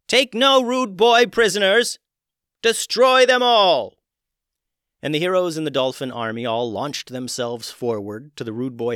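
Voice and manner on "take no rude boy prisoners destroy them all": very loud, high slow war cry; yelling battle cry. Acted. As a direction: scream the charge at her army. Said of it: "turned to her dolphin followers and yelled".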